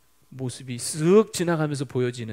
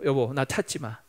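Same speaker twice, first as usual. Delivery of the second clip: firm declaration, building louder; 단호한 선포; 6 dB louder than usual. Retold or imitated. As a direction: announce your resolve to your wife, pushing the key words hard. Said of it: "이렇게 선포했대요". (단호하게 선언하듯)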